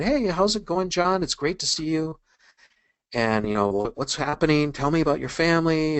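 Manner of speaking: acted upbeat small talk; friendly greeting. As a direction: imitate a friendly check-in with an acquaintance.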